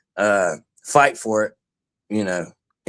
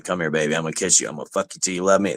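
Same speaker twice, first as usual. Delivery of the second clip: lower, lisping Tyson-style threat; Mike Tyson impression; 7 semitones lower, 4 dB quieter, much faster than usual. Retelling the stick fight, a lower Tyson go-to. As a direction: mutter it like Mike Tyson, fast at the end. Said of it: "I went to the Mike Tyson thing again".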